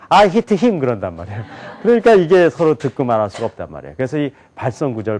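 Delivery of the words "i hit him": high "I hit him" at the front of the mouth; Korean-style English. Shown as a demonstration. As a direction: pitch "I hit him" up, each word separate. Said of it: "그러면 우리는".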